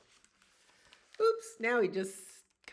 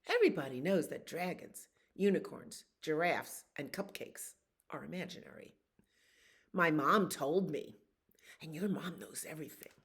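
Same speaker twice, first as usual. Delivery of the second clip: know-it-all frog. Acted. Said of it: "And the frog says".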